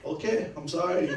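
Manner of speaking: high, loud "Okay, I'm sorry" through a laugh; laughing through a mock apology. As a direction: apologize while cracking up. Apology again, now laughing.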